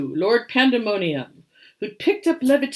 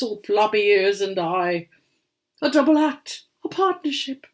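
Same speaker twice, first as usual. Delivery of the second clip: a touch of wistful sadness, voice lifted a little; a mild, lightly voiced sigh over lost days; sad old grandpa; 3 semitones higher than usual. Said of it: "Old Grandpa sat there sadly".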